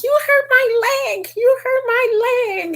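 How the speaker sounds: high, put-on whimper; whiny victim voice. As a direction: play a complaining woman faking injury. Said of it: "she was like".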